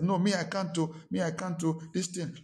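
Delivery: mock refusal. Pastor imitates people who cannot forgive, protesting. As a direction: imitate someone flatly refusing to do it.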